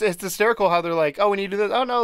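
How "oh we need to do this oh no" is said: high, lively Cockney corn voice; playful Cockney accent imitation. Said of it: "I wanna say Cockney".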